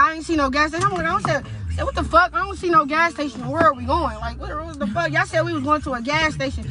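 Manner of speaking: mock-alarmed complaint; retold indignant protest. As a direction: demand answers, exasperated. Retold protest at missing gas station.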